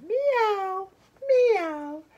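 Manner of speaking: lightly sung, drawn-out meows; slow, sliding cat call. Acted. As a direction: stretch out each meow like a cat. Jazz cat character meows.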